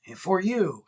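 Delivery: put-on botched African accent, slipping into Russian; badly faked African accent with a Russian tinge; a hint of accidental Russian in an African accent; attempted African accent. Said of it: "I don't know why he's Russian".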